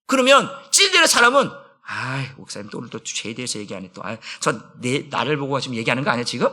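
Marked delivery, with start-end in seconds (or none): 1.8-6.5 low, much softer muttered complaint, quicker at the end; grumbling churchgoer. Retold or imitated. Pastor voicing a churchgoer stung by a sermon on sin, muttering low and soft. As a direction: grumble under your breath like a member who feels singled out. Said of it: "이렇게 생각하게 된다는 거예요".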